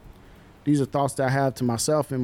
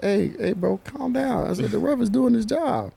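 mock calming coach; 9 semitones higher than usual. Coach calming the upset kid.

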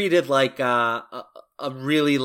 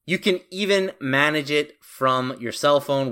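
scripted podcast ad read, punchy phrases with short pauses; sponsor ad read; 2 semitones higher than usual. Acted. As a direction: read the sponsor copy to listeners, lifting each new line. Host reads sponsor ad.

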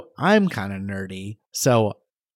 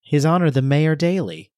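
mock Chicago accent, pitched up; 3 semitones higher, 3 dB louder than usual. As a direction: proclaim it as a pretend Chicagoan. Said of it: "we haven't done a single Chicago accent".

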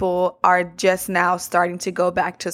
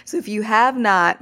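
voice cracking. Real, not acted. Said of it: "my voice just cracked".

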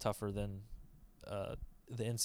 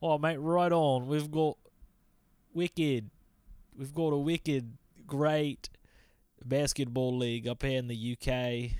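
mock Scottish accent; 2 semitones higher than usual. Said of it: "the Scottish Basketball League's pretty good too, right, Austin?".

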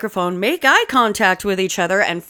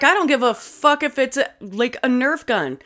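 higher-pitched mock indignation; mad, retold; 5 semitones higher than usual. Retelling daughter's answer to the kids, mock mad. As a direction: imitate a mad teen brushing off excuses. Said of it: "Oh, she was mad".

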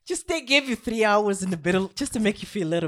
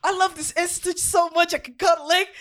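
sarcastic; 11 semitones higher, 3 dB louder than usual. Acted. Sarcastic love for bad job.

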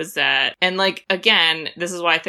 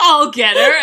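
imitating Tim Curry; 3 semitones higher, 7 dB louder than usual. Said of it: "Tim Curry catching Peacock".

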